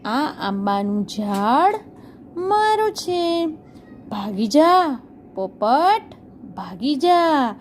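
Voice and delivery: mild, slow mock crow yell; a touch of a bossy crow chasing off the parrot; teacher lightly voicing the crow shooing the parrot; crow shouting. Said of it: "કાગડાએ બૂમો પાડી".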